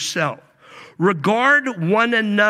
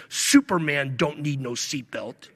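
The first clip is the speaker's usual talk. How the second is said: gruff boxer; 3 semitones lower than usual. Retold or imitated. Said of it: "with a gruff voice".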